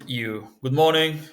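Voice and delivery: usual speaking voice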